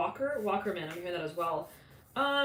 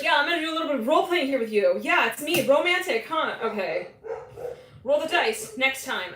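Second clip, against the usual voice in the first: fast, higher, louder mock come-on; hammed-up flirty role-player; 6 semitones higher, 6 dB louder than usual.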